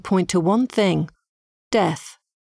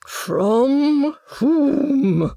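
higher shrieked "From whom?"; lady shrieks "From whom?" at the evasive medium; unladylike shriek; 6 semitones higher than usual. A narrator's reading. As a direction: shriek "From whom?" losing all decorum. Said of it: "Hattie shrieked in a very unladylike manner".

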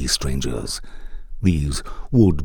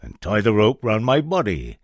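raised urgent call; crying out; 5 semitones higher, 3 dB louder than usual. Acted. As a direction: call it out louder. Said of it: "cried the soldier".

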